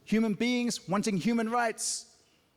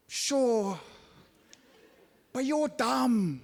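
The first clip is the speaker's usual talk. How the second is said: deadpan put-down; much slower than usual. Retold or imitated. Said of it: "I always wanna go".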